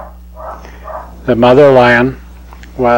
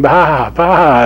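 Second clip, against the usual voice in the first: sheep bleat; 3 semitones higher, 3 dB louder than usual. Acted. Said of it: "it's going".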